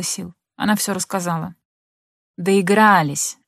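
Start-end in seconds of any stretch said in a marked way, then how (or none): 2.4-3.4 slow, drawn-out gloating word; smug satisfaction. A narrator's reading. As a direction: savour it like a smug mother. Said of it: "удовлетворённо сказала мать". (мать злорадно тянет «Доигрались»)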